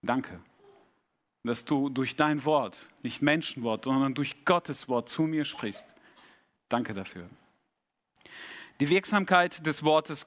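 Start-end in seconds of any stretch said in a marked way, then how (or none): 0.0-7.3 low, hushed prayer of thanks; preghiera. Real, not acted. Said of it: "mein Gebet".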